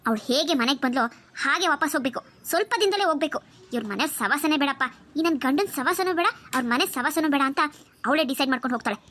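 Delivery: aunt reassuring her niece, a hint of scheming. Aunt voice plotting.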